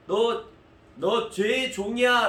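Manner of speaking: high, loud, slow, outraged; offended disbelief. Acted. Jews echoing 'slave of sin', outraged. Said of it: "라고 하는 말에".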